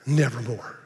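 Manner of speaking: a low, dark croak of an answer; the raven's low, final reply. Acted. Raven answers the grieving poet.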